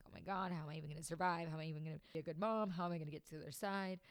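fast, quiet run of worried questions; overwhelmed. Retold or imitated. New mom doubting she will survive, mildly overwhelmed rush. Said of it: "it was so overwhelming".

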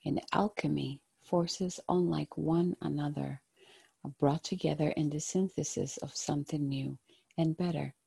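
gentle, hushed guided-meditation voice. Acted. Tarot card reading, meditative guidance.

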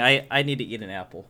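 talking with mouth full; chewing while talking. Real, not acted. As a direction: chew an apple as you speak. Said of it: "Excuse the chewing".

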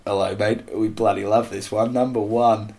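affable Kiwi voice; New Zealand accent. Acted. Giving New Zealand's verdict on the song, New Zealand accent. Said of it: "In New Zealand, they said".

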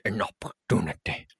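pompous official announcement, hammed-up; mock professional statement. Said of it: "Yes, professional".

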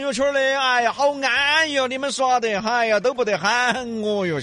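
high, loud whine about being left out; hammed-up hurt whining; mock sulky complaint. Acting sulky friend who was left out.

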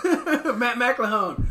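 loud, drawn-out guest intro; host announcement. Real, not acted. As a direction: call out the guest's name like an emcee.

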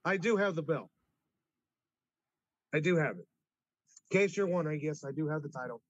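rubbing it in, stress on "do"; lightly smug boast to a rival; gloating. Real, not acted. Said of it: "I gotta rub it in his face".

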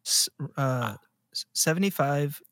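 halting, whispered mock stammer. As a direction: stumble over the words in a hushed, unsure whisper. Mocking the kid's stammered answer.

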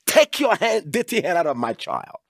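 preacher's rebuke of Satan; commanding the devil. Shown as a demonstration. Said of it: "And to say".

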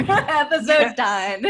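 slow laughing mock-final sign-off. Real, not acted. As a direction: drag it out while laughing. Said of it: "Mic drop".

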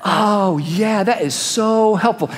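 slow, put-on agreeableness; drawn-out, mock-soothing approval; feigned calm. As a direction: pretend to be calmly grateful. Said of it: "If I'm calmer and I go".

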